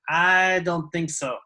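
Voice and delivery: slow, drawn-out doubt; disbelief. Acted. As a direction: stretch it out, not buying it. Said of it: "like, in disbelief".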